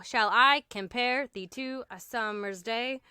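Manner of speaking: measured verse beat on I, PARE, THEE, SUMmer's, DAY; demonstrating a da-DUM rhythm through "summer's day"; iambic pentameter. Shown as a demonstration. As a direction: recite it with every second syllable stressed. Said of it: "that's what iambic pentameter is".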